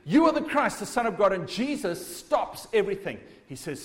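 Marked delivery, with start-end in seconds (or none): 0.0-1.3 blurted out. Retold or imitated. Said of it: "Peter blurts out this thing".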